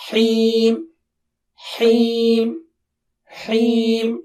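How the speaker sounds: Heem with a clear breathy ha; teacher drilling a clear ha. Shown as a demonstration. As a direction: drill Heem, ha heard plainly. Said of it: "Ha sound should be clear".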